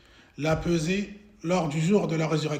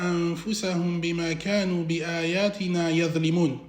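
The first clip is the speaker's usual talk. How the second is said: melodic Arabic chant with held vowels; Quran recitation; faster than usual. Acted. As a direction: chant the verses smoothly, drawing out long vowels.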